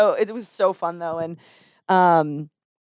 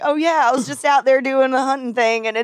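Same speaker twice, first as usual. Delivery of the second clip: put-on higher-pitched Texas ranch accent; 6 semitones higher than usual. Texan back from the ranch talking hunting, Texas accent. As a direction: let the Texas twang take over. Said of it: "I'll catch myself".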